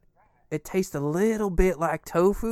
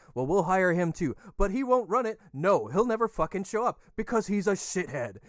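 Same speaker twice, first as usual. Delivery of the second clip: upbeat commercial pitch, a bit hammed-up; mock ad read; 3 semitones higher than usual. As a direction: sell it like a cheesy radio spot. Reads a mock sponsor ad.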